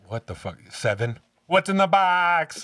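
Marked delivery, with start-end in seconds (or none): 1.5-2.6 high, loud, drawn-out movie-quote yell; anguished mock shout. Quoting Seven after creepy bathroom story, anguished shout. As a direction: cry it out in hammed-up desperation.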